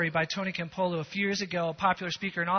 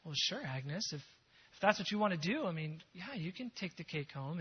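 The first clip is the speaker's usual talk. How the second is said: gentle reply; 7 dB quieter than usual. Retold or imitated.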